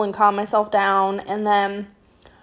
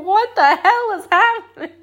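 mom's alarmed cry; 10 semitones higher than usual. Retold or imitated. Mom bursts in on chaos.

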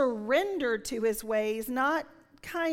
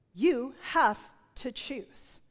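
slow divine voice; much slower than usual. Retold or imitated. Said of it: "spoken two different rhythms".

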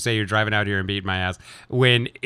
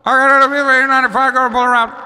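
high, bright service-window voice, up a lot; drive-thru worker voice; 11 semitones higher, 4 dB louder than usual. Pretend. Coworker playing a drive-thru clerk in a skit, high and chirpy. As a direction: play the cheery Dunkin' clerk at the speaker box. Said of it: "we're gonna do a skit".

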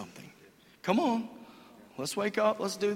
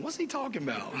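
quieter, puzzled with a laugh; mock the single guys' confusion, chuckling; confused with a chuckle; 4 semitones higher, 7 dB quieter than usual. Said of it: "single guys going".

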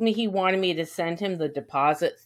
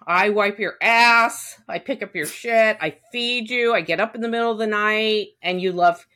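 rising louder, listing grievances higher; indignant rant; 5 semitones higher, 4 dB louder than usual. Retold or imitated. Owner ranting at her ungrateful dog, indignant and rising. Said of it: "I'm like".

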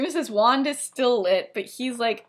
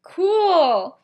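awkward acceptance; 8 semitones higher, 8 dB louder than usual. Retold or imitated. Sirius's awkward reply to her denial.

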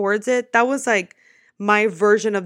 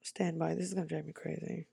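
quiet aside; 4 semitones lower, 13 dB quieter than usual. Real, not acted. Aside to viewers while recalling.

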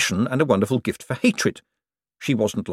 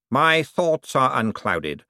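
slow, dreamy self-assurance; drawn out, lost in himself; Cosmo's voice; 4 semitones higher, much slower than usual. Acted. To Poochie, Cosmo slow and dreamy.

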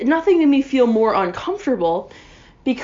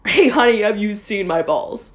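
quoting the ad line; 3 dB louder than usual. Retold or imitated. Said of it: "say the line".

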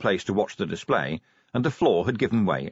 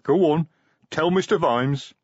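maternal; 7 semitones higher, 3 dB louder than usual. Acted. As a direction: nudge him gently like a mother. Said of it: "said the maternal Detritus".

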